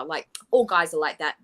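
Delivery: a lightly voiced, dismissive 'all guys are like that'; mock excuse. Shown as a demonstration. Commentator mimicking the excuse, dismissive. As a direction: shrug it off as if it's normal. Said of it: "No, not all guys are like that".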